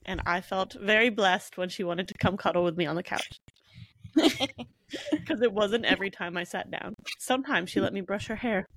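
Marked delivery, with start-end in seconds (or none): 4.2-6.9 laughing. Real, not acted. Laughing while teasing her friend.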